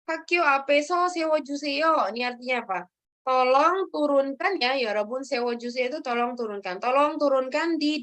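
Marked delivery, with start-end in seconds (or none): 0.1-2.1 careful, slowed Korean model; slow reading aloud. Shown as a demonstration. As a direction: spell it out slowly for students. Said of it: "silakan dibaca ini".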